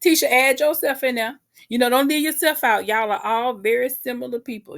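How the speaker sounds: retorting at the screen; telling them off. Retold or imitated. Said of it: "And I was just like".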